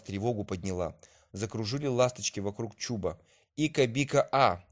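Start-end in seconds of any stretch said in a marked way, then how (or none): 3.6-4.6 swallow call. A narrator's reading. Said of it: "на ласточкином языке".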